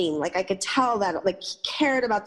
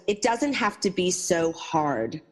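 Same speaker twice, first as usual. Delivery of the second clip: gentle wisdom; slower than usual. Retold or imitated. Homeless woman advises the narrator at dawn, slow and gentle. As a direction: say it slowly like a kind truth.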